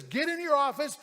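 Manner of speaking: mock call across the floor; retold yell. Worker retelling the foreman's dreaded summons, mildly yelled. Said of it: "he yells your name and says".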